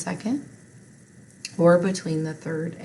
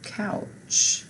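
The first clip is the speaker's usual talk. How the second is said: whispered word; 6 semitones higher than usual. Shown as a demonstration. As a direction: whisper "Couch" with no voice. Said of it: "K-ow-ch".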